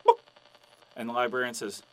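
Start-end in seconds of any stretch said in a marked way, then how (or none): 0.1-0.2 one short clipped cluck; hen's single-word cluck; chicken cluck. Acted. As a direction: cluck it like a hen saying book. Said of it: "this chicken walks into the library".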